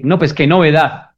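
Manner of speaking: sarcastic what's-new to a forgetful partner. Retold or imitated. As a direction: sneer at the news. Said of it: "es lo que también podemos decir".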